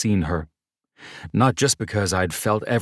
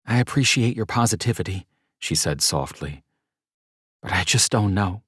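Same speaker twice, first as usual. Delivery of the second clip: doubtful woman; 3 semitones higher than usual. Acted. Mercedes doubtful.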